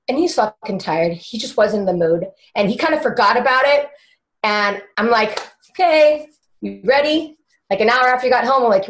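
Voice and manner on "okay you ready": bright-eyed, higher-pitched check-in; eager prompting. Retold or imitated. Eagerly asking husband to go out.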